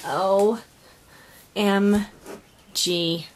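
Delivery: each letter set apart with a pause; O, M, G as three separate exclamations; spelled-out amazement. Real, not acted. Crafter first sees her friend's gift, letters spaced out in amazement.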